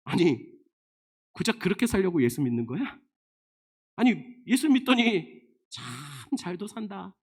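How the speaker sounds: scoffing onlooker, acted out; mocking sneer. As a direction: sneer at a believer's bad luck. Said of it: "비웃어요".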